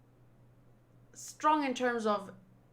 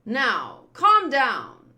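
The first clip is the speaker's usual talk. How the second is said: mock calming taunt; 8 dB louder, much slower than usual. Villain taunting Vivi.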